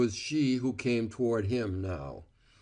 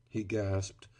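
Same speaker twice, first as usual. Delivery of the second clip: usual speaking voice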